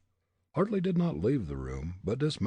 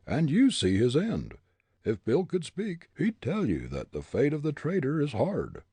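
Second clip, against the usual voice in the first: higher, firm interrogating captain; stern captain; 7 semitones higher, 4 dB louder than usual. A narrator's reading. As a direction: accuse like a gang leader. Captain voiced.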